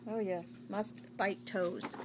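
Wookiee voice. Pretend. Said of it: "now you're a Wookiee, like Chewbacca".

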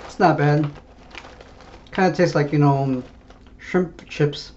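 talking with food in mouth; mumbling between bites; chewing while talking. Real, not acted. Seen 0: Lips pursed and jaw working while holding the open snack bag.

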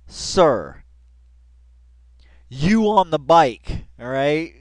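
loud call across a parking lot; police officer hailing someone loudly; cop calling out. Retold or imitated. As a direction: shout it out to get the cyclist's attention. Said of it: "when the cop said".

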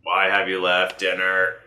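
slow, even robot guard voice; robot guard speaking stiffly. Acted. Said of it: "you said it like a robot voice".

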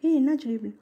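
startled, check on her fast; a startled worried call; alarmed. Acted. He hears her cry out.

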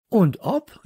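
high, loud emphatic yes; calling out. A narrator's reading. Child assuring Josef it is serious, calling out. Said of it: "rief ich".

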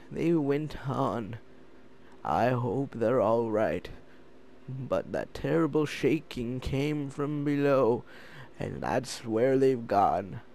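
lightly voiced worried scientist; a hint of a fretful old researcher; imagined scientist voice. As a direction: read his lines as a troubled scientist, barely changing the voice. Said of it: "That's how I, I envision him speaking".

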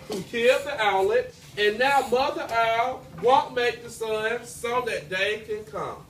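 storyteller reading to a class; lively read-aloud for children; story narration. A narrator's reading. Teacher reading folktale to class.

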